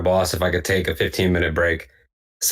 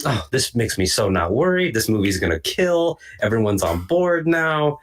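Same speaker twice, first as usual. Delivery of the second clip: drawn-out, naively confident gush; retold naive optimism, stretched out; mock relief; 4 semitones higher than usual. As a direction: act out blissful relief, swooping high on key words. Acts out his naive relieved thoughts.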